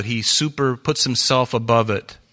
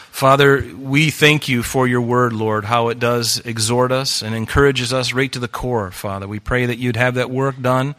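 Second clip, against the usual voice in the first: prayer; 4 dB louder than usual. Acted. Pastor leading the standing congregation in closing prayer. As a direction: lead the church in prayer.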